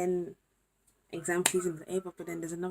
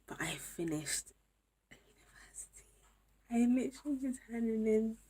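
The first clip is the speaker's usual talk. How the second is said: whisper; 4 semitones higher than usual. Real, not acted. Whispering the big news.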